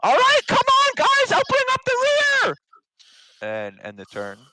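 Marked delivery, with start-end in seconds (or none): 0.0-2.6 very high-pitched, full-volume battle call; rallying shout. Acted. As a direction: holler to rally the party. Pippin calls out to party in battle.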